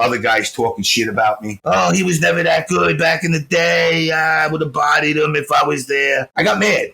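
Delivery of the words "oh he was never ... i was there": droning sing-song mimicry of the haters; mocking trash talk. Retelling online guys talking trash about him, mocking drone.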